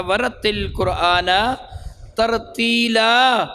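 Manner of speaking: ورتل قرآن ترتیلا recited slowly and measured; Quranic recitation. Shown as a demonstration. Teacher quotes the verse to students, slow recitation. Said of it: "یعنی ... ترتیل کے ساتھ پڑھو".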